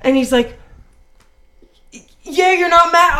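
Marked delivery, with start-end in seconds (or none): 2.2-3.2 higher, louder disbelieving question; a touch of amazed relief; mimicking Jake's surprise. Jake asking his girlfriend if she's not mad, higher and surprised.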